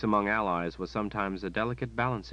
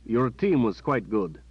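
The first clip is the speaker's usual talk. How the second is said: louder, halting praise, slowing; awkward captain; 4 semitones higher, 5 dB louder than usual. Acted. Captain fumbling praise to the boy, awkward. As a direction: search for something kind to say. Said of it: "the captain stammered".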